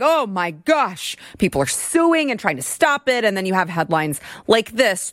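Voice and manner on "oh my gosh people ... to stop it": mock whining. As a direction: mimic the media crying about it. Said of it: "crying about it".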